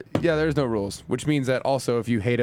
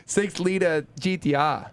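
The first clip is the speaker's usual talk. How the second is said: copying the Australian "Six liter G T R" slowly, higher; "liter" drawn out as "lidda" in a careful Aussie accent; 4 semitones higher, slower than usual. Shown as a demonstration. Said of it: "So much better than me".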